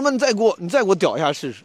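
high, challenging retort; mock fierce challenge. Narrator daring the queue-jumper to push him again. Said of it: "我凶的时候可凶了".

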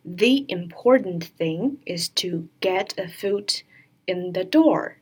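"the important" with "the" as "thee", "the door" with "thuh"; "thee" before "important". Shown as a demonstration. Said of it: "在元音因素之前要发the的音". (“the important”中 the 读 thee)

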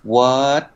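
"What" ending with tongue up, no release; American unreleased T demo. Shown as a demonstration. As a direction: stop "What" crisply without popping the T. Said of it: "舌头会顶上去上颚".

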